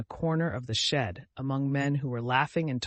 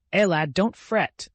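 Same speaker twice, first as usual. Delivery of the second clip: slow, higher, caressing lilt; tender sing-song; 5 semitones higher, 6 dB louder, slower than usual. A narrator's reading. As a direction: soothe him like an old peasant woman crooning. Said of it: "in the tender sing-song caressing voice".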